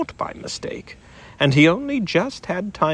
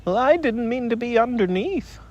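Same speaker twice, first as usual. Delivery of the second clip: mildly sad; 8 semitones higher than usual. Acted. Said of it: "said Piglet sadly".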